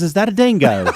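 a hint of a girl's British-Australian accent. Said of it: "foreign accent".

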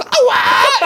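sudden high, loud blurt; mock shriek breaking a silence; Colin. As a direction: imitate someone blurting out, very high. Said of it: "then Colin just blurts".

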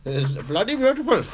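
put-on a silly over-the-top Asian accent for a laugh; mock Asian accent. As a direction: push "It's bloody beautiful" up into a jokey put-on Asian accent. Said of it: "just 'cause I can do an accent".

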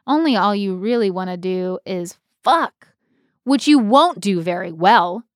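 stage read of the original line with fuck; a light Betty reading; the script's version. Shown as a demonstration. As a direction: give the line as written. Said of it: "what the script says".

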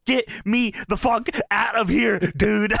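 high-pitched urgent plea; mock panic. Host voicing panicked wrestler begging partner, high mock panic. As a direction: beg to escape, acted for laughs.

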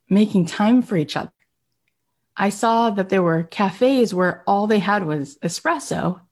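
lightly awed, lilting retelling; mild wonder at something newly seen; retold wonderment. Man telling Kath about Italy's cafes, in mild wonderment. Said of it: "he was just in such wonderment".

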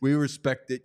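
a hint of Boston accent. Red Sox fan talking up a new signing, light Boston accent. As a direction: casually imitate a Boston sports fan. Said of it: "It's my Boston accent impression".

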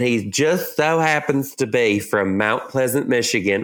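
put-on Southern US accent. Shown as a demonstration. Host introducing the vet's hometown to co-host, Southern accent. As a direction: say it with a light Southern twang. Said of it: "I did it in a Southern accent".

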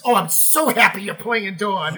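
slow, gushing mock delight; imitating a singer. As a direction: lightly imitate an overjoyed star greeting a castmate. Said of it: "then Cindy comes up to me".

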